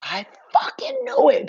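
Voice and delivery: high whispered amazement; stunned whisper. Retold or imitated. In the dream recognizing her past wife, awed whisper. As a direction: whisper it in disbelief. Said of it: "I was like".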